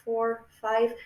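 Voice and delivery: quiet steady counting through the breath; calm guided breathing count; soft breath count. Shown as a demonstration. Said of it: "do our breathing".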